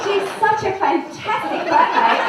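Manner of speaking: put-on giggly girlish diary voice; embarrassed diary reading. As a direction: read the diary as a gushing girl. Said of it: "Dear diary".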